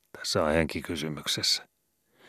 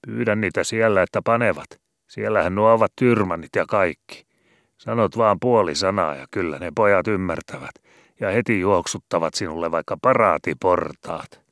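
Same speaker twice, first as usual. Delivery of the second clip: higher, loud teasing sailor; mocking skipper; 4 semitones higher, 7 dB louder than usual. A narrator's reading. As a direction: rib the scared cantor loudly. Matti mocks the cantor.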